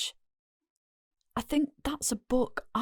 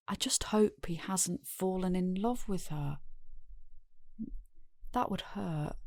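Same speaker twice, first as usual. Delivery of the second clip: hushed whisper; 6 dB quieter than usual. Acted. Wife's private fear of love affair.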